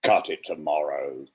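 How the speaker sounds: dramatic poetry reading; poem reading. Acted. Reader performing Merwin's The Last One with weight. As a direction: read it with rising menace and weight.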